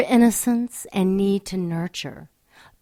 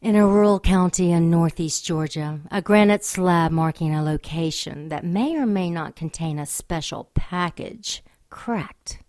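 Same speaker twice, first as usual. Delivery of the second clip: story narration; 2 semitones lower than usual. A narrator's reading. Narrator's ominous scene setting.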